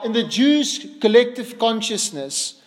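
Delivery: normal talking voice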